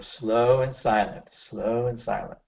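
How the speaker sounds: soft, drawn-out breathing cue; quiet, unhurried reminder; slow and hushed. Shown as a demonstration. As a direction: guide the breathing gently, softly. Coach guiding breathing during exposure.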